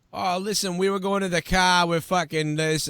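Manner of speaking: eighth-grade self. Retold or imitated. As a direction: mimic your young teen self on an old tape. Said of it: "a tape of me in eighth grade".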